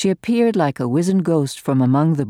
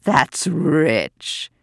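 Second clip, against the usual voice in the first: gloating. Acted. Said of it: "gloated Lady Bromley".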